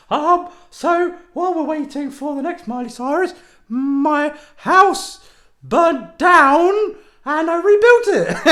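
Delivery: mock DJ, slowing on house burnt down; radio DJ parody. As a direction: ham it up like a desperate radio host. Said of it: "the D J stories".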